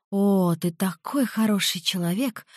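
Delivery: breathy Hollywood starlet voice; Marilyn Monroe voice. Pretend. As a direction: sigh it out like a swooning starlet. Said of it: "пародируя Мерлин Монро".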